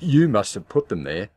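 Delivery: loud, harsh and accusing; angry growl. Acted. Husband growling at wife over dirty glasses, angry. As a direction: snarl the question at her. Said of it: "he growled".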